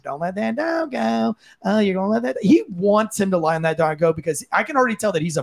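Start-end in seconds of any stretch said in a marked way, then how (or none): 0.0-2.4 mocking his whiny tone. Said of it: "His tone of voice is going".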